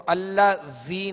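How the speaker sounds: "Allah जी" with a sibilant z; wrong whistling z. Shown as a demonstration. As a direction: show the mistake: a hissy z in "जी" of "Allah जी". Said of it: "नहीं पढ़ेंगे".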